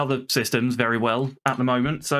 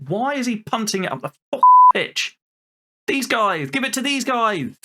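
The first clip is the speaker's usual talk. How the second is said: louder, higher, fed-up yell at the screen; angry shout; 9 semitones higher, 5 dB louder than usual. Real, not acted. Manager shouting at his player punting the ball, angry. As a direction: bark it out at a player who won't listen.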